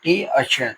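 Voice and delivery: "टी" and "चर" as two separate beats; syllables separated. Shown as a demonstration. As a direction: set "टी" apart from "चर" with small pauses. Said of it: "जो दो syllable बना है". ("टी" और "चर" अलग-अलग बोलकर)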